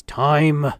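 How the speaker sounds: gravelly guard's curt verdict. A narrator's reading. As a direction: call it in a gravelly voice. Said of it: "the guard with a gravelly voice says".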